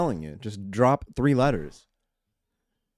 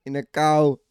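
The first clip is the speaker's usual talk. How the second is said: slower, higher Irish accent turning Jamaican; botched Irish accent; 4 semitones higher, slower than usual. Shown as a demonstration. Demonstrating the failed Irish impression, accent drifting Jamaican. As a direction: try Irish, slowly, slipping toward Jamaican. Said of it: "I kinda went Jamaican there".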